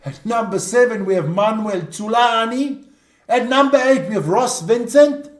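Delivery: lineup read with a light Italian lilt; best Italian accent. Shown as a demonstration. Host going through the Italian team, light Italian accent. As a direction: announce each name with a touch of Italian accent. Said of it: "your best Italian accent".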